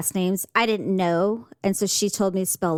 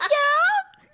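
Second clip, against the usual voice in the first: high, giggly yeah; laughing yeah. Retold or imitated. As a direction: admit it through a laugh. Sheepish self quoted, laughing.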